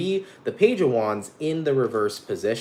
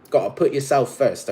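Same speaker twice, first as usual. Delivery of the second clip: put-on British accent. Tarot reader urging Cancers to self-priority, British accent. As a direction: slip into playful British English. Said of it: "talking in a British accent".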